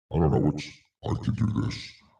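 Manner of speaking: whispered, breathy voice. Showing voice changes on a new device: ransom-call voice. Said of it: "I feel like I'm calling for a ransom payment".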